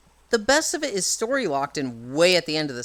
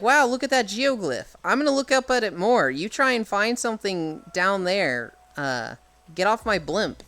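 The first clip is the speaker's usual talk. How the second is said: lightly voiced Impa, higher and breezy; airy higher voice, oblivious; raised-pitch Impa voice; 3 semitones higher than usual. Impa gushing over the geoglyph, lightly voiced higher. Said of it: "she's like".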